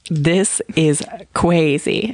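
imitated childish lisp, "crazy" as "kwayzy"; lisping little-kid "crazy", the r softened to w; child's lisp. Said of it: "She has a lisp".

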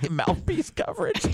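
high, slow disbelieving repeat; incredulous echo. Real, not acted. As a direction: drag it out in disbelief. Echoing Bubba's phrase in disbelief.

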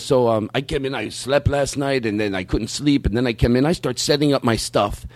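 lightly accented, rambling impression; imitated acquaintance's voice. Man recounts his morning to a regular, lightly imitated voice. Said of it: "do him doing that voice".

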